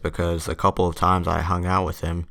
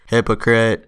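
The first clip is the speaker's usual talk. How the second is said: higher, louder mock shout; retold yell; 4 semitones higher, 6 dB louder than usual. Kyle yells after the teacher leaving, mock accusing shout. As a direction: call it out as an imitated accusation. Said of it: "And then Kyle yells".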